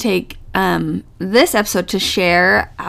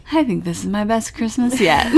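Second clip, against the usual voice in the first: laughing. Retold or imitated. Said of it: "he just had all this cute stuff".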